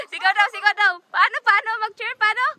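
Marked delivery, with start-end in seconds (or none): 0.1-0.5 a real cheer this time, called out; louder shout. Shown as a demonstration. 0.5-0.9 a real cheer this time, called out; louder shout. Shown as a demonstration.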